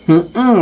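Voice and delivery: put-on a child's noncommittal murmur; reluctant child hum. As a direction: hum it unwillingly. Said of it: "ngomongnya gitu".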